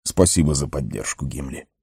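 soft, smiling gratitude; smiling thanks. A narrator's reading. Gandalf thanks the dwarf for his support, soft and smiling. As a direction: thank him softly with a smile in the voice. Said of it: "улыбнулся гному Гэндальф".

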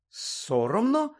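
drawn-out question, rising high; helpless echo. A narrator's reading. Hermione echoing Winky's shame, helpless questioning. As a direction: repeat it slowly in bewilderment. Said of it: "безпорадно перепитала Герміона".

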